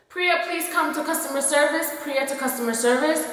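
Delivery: measured, singsong PA page; imitated customer-service announcement; store speaker announcement. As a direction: page a coworker over the store intercom. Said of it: "I called her over the speaker".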